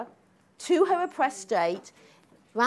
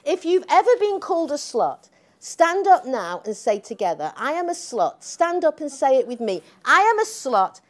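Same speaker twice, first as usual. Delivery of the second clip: rally speech; 3 dB louder than usual. Retold or imitated. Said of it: "this was her speech".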